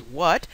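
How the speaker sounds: quoted "What?" with a rising pitch; imitated query, "What?" lifting at the end; questioning. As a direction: ask "What?" as a listener who missed it. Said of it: "when someone says".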